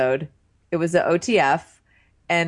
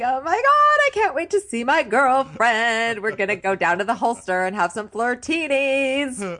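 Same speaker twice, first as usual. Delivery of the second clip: mock giddy excitement; 4 semitones higher than usual. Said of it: "He squealed when JoJo drove up".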